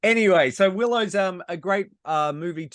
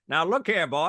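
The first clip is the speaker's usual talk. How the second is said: put-on old-timey banker voice. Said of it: "some sort of banker?".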